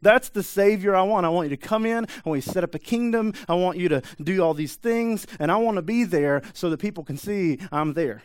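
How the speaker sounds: put-on high, loud boyish excitement; eager daydreaming. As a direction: dream out loud about the throne. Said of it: "he thought".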